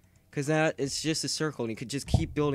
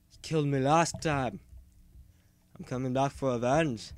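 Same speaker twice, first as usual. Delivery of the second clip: a slightly louder, rough attempt at Scottish; crappy Scottish accent; 5 dB louder than usual. Player threatening a spider for revenge, crappy mock Scottish accent. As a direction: put on a half-baked Scottish accent. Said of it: "Scottish accent right here".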